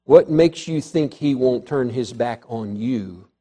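low, hushed preacher's warning; solemn warning. Real, not acted. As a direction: drop low and soft to warn them. Grave warning to the congregation.

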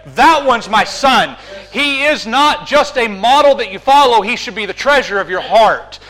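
a hint of a booming heavenly proclamation; God the Father proclaiming. Preacher voicing God the Father to the angels, mild proclamation. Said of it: "pulled back the curtains of heaven and said".

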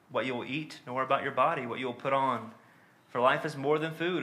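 measured, solemn reading of a Bible passage; steady pulpit reading of scripture. Acted. Reads Luke twelve aloud.

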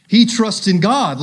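jeering "He trusts in God"; mocking taunt. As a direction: spit it out like a scoffer. Mockers quoted in reading.

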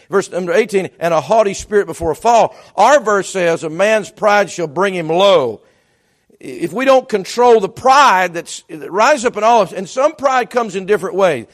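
loud, insistent sermon voice; forceful preaching. Real, not acted. Preacher warning the congregation about pride, forceful preaching. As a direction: press each point on the congregation, loudly.

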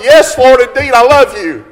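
Peter crying out to the Lord, high and loud; fervent pulpit cry of devotion; grieved, impassioned plea. Acted. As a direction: plead at preaching pitch, drawing out the key words. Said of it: "he's grieved the third time".

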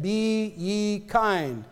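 each word drawn out slowly, "Be ye kind"; slow emphasis. Retold or imitated. Preacher quotes scripture to the congregation, slowly. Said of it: "he said".

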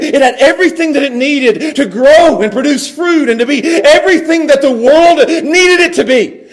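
fervent sermon delivery, stretching the phrase ends; full-force preaching. Real, not acted. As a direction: proclaim God's plan to the congregation.

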